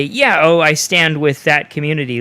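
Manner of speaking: slightly lifted voice, mimicking a supporter; lightly mock a show of agreement; hypothetical supporter. Podcaster imagining himself backing that community, mock supportive. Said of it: "it's hard to say".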